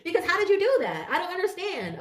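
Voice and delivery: high, giggling through the words; real amused laughter; laughing. Real, not acted. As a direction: laugh while you ask it. Laughing at her own joke.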